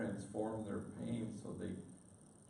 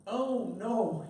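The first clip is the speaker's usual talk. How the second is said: imitating a panicked dad, much higher and louder; panicked father; 10 semitones higher, 8 dB louder than usual. Father phoning the priest about his daughter, panicked higher voice. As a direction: retell the frantic call in a higher, louder, pleading voice. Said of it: "with panic in his voice".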